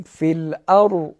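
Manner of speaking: الارض with a thick full ر and careful ض; heavy r. Shown as a demonstration. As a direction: fatten the ر in الارض. (تفخیم را در الارض)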